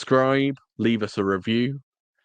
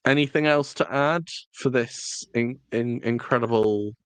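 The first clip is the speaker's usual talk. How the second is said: mildly sarcastic sign-off question; faint irony on the praise, halting before it. Real, not acted. Co-host asks for anything else to add, sarcastic. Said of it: "That sounded sarcastic".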